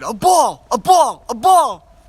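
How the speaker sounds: put-on a tiny kid thrilled, pointing up; excited toddler. Dad imitating his excited son at the moon, loud toddler shouting. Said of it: "And he's all excited".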